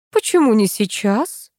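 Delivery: slow calm asking; a hint of a calm old lady; calm question. A narrator's reading. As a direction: ask calmly, unhurried. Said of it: "спокойно спросила старуха".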